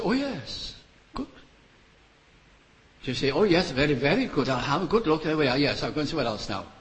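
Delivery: breezy, offhand, brushing it off; mock casual glance. Careless believer glancing at the cross, mock breezy. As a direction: hurry past as if bored. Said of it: "you glimpse at the cross and say".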